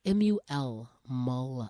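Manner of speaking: slow spelling, then a low "mulberry" with MUL; corrective pronunciation. Shown as a demonstration. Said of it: "you're not saying the word right".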